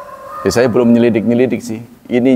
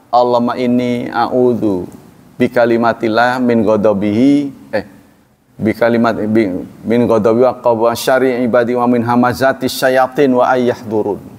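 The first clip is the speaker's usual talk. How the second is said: recited prayer; 3 semitones lower than usual. Acted.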